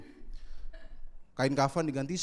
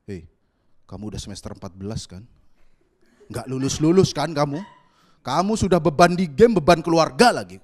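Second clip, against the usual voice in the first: louder and louder taunting; mock trash talk; 3 semitones lower, 9 dB louder than usual. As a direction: rub it in, building to a loud jeer. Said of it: "kalian bacot kan". (ejekan keras yang makin lantang)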